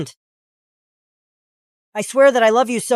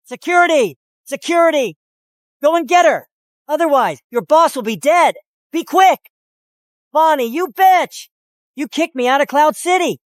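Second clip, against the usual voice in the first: raised, urgent angry yell; 3 semitones higher than usual. Acted. Cornered man calling security and cursing Bonnie, angry yelling. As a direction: yell orders and curses as if cornered.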